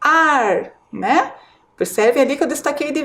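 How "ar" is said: "Ar" said alone, firm and clear; stressed syllable. Shown as a demonstration. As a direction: pull out the strong syllable "Ar" for the children. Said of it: "a sílaba mais forte é a antepenúltima".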